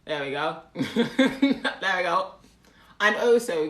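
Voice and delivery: badly put-on British accent; amateur mock British accent; awful British accent. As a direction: attempt British and do it clumsily. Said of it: "it's a very awful British accent".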